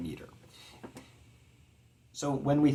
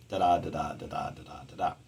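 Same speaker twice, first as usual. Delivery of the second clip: da-DA five times, dropping softer; five iambs; 6 semitones lower, 6 dB quieter, much faster than usual. Shown as a demonstration. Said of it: "iambic pentameter".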